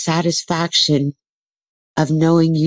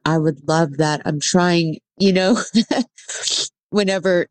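after crying. Real, not acted. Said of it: "sorry, I was a little teary there".

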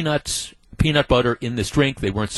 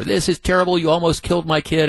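raised, indignant retold shouting; mock angry yell; 5 semitones higher, faster than usual. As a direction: act out the furious dad, higher pitch. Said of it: "he starts screaming and berating".

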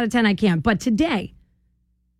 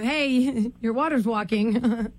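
laughing; 4 dB quieter, much slower than usual. Retold or imitated. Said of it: "I've never heard of".

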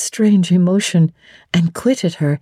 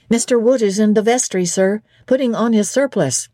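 higher, brisk servant's report; lightly voiced footman; 5 semitones higher than usual. Footman reporting the clergyman is ready, higher and fast. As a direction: report quickly to the master.

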